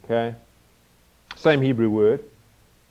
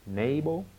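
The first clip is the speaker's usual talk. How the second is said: trying out an American NAY-bul, softer, rising; attempted American accent; 2 semitones higher, 6 dB quieter than usual. Shown as a demonstration. Visiting African preacher trying his listeners' accent, tentative American accent. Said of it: "trying to get your accent right".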